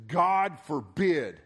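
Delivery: slow, emphatic mock British reading; lightly hammed-up British scripture voice; British accent. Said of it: "in my strongest British accent".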